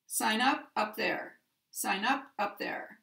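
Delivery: first "up" stressed, second "up" light; stress on the particle. Shown as a demonstration. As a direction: lean on the first "up", ease off the second. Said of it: "The particle takes the stress".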